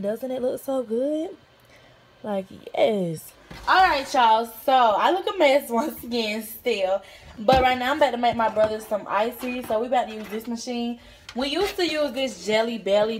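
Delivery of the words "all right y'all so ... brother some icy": louder, bright, energetic host; excited. Real, not acted. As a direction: pump it up for the camera. Upbeat intro to making icy.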